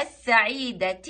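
السعيدة with silent ل and doubled س; solar lam shown. Shown as a demonstration. Teacher showing the solar lam, السعيدة with س emphasised. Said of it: "كلمة بها لام شمسية".

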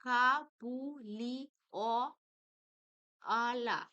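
কা বু লি অ আলা loud, with a gap after each syllable. Shown as a demonstration. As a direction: break কা বু লি অ আলা into separate syllables. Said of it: "আমি দল বিশ্লেষণ". (কা বু লি অ আলা দলে ভেঙে বলা)

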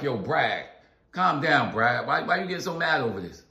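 a light touch of a calm inner voice talking himself down. Retold or imitated. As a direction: ease yourself down, gently. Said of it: "like a calming voice that I got to my own self".

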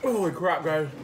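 talking around an ice cube; ice in mouth. Real, not acted. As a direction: speak while chewing ice. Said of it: "Please don't chew on ice cubes".

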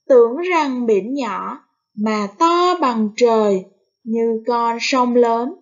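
slow, cheerful recital; cheerful poem reading. Shown as a demonstration. Teacher reads the poem aloud to pupils, slow and cheerful. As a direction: read it like a happy child at the sea. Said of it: "đọc bài thơ với giọng vui tươi".

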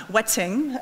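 "wetting" said slowly and deliberately; "wetting" drawn out, self-conscious; careful "wetting". Shown as a demonstration. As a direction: sound out "wetting" with care, slightly awkwardly. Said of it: "and then I say it awkwardly".

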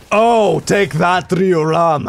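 slow, loud mock-Viking accent; Viking Jon Snow accent. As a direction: bellow it slowly in a muddled Viking accent. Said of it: "like a Viking Jon Snow".

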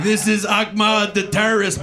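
puppet voice. Pretend. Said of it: "It was like".

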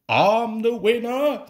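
high, loud little-engine boast; excited peep. A narrator's reading. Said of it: "peeped Scarlurry".

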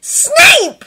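loud, high, exasperated outburst; exasperated cry. A narrator's reading. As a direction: blurt the name, fed up. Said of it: "he hissed, exasperated".

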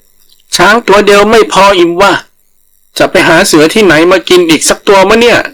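a tiny rabbit playing the big predator; boastful rabbit. Rabbit boasts for tiger to hear.

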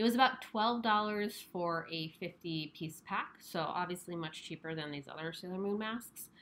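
muffled behind surgical mask; speaking masked; through a face mask. Real, not acted. Seen 5: Pink surgical mask covers her mouth and nose throughout; references unmasked.

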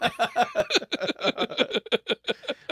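loud, long, high cackling laugh; high-pitched laughing fit. Real, not acted. Host reacts to a picture in the texts, laughing hard. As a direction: burst out in rapid high laughter.

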